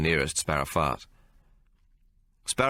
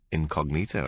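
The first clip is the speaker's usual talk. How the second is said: reporter repeating; 2 semitones lower than usual. Acted. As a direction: repeat incognito with mild amusement. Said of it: "That's a big word".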